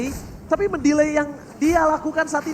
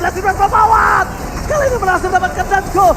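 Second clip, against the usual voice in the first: excited shout; 4 semitones higher, 5 dB louder than usual. Real, not acted. Esports caster hype call.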